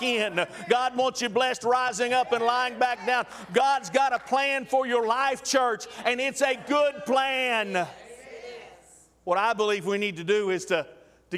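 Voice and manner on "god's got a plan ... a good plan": drawn-out, emphatic preaching; slow down and shout it to the church. Acted.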